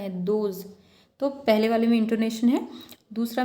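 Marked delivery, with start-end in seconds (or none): 0.2-0.6 दोज said alone with light stress and a falling tone; one lightly stressed, falling दोज; slight stress on दोज. Shown as a demonstration. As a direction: lean a little on दोज, then let it drop. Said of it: "थोड़ा सा stress feel कर रहे".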